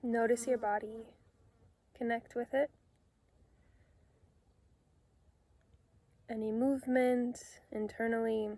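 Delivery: calm meditation guide with long pauses between phrases; unhurried, soothing instructions, phrase by phrase; guided meditation. Real, not acted. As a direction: gently lead them into relaxation, leaving space to breathe.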